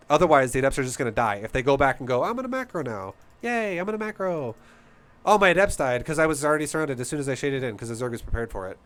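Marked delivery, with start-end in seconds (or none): 2.2-8.8 mock naive player. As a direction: poke fun at the clueless player. Mocking a naive player's thoughts.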